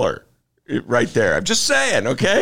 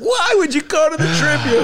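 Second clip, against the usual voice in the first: much higher, mock-incredulous listener; listener's objection; 3 dB louder than usual. Host voicing skeptical listeners about reading the Tribune, mock incredulous. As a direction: play the scoffing audience. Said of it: "I know what you're saying out there".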